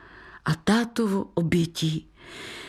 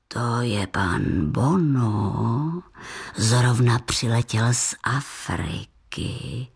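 put-on deep, slow old grandfather voice; kindly old grandfather introducing a guest; grandpa; 10 semitones lower, slower than usual. A narrator's reading. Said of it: "představil děda".

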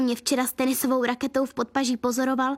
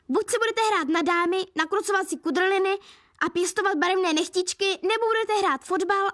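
breathless coach; 5 semitones higher than usual. Acted. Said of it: "zálpal Romeo po dechu".

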